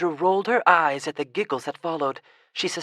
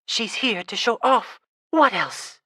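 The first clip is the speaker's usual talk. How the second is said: mocking retort; 7 semitones higher, 5 dB louder than usual. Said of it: "another voice answered".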